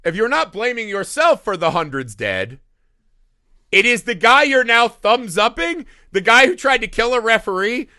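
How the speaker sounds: a hint of an outraged lecture aimed at Achilles; exasperated scolding. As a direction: scold the character like a fed-up viewer. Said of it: "I was like".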